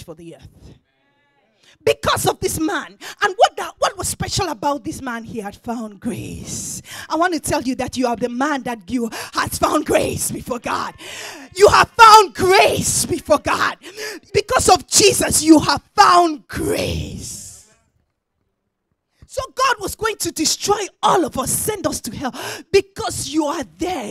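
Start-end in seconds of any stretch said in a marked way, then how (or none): 1.8-17.7 shouted sermon building to a climax; full-force preaching. Acted. Preacher tells congregation they found grace, shouted preaching. 19.3-24.1 loud, driving sermon voice; full-force preaching. Acted. Preacher describes the flood to the congregation, loud preaching.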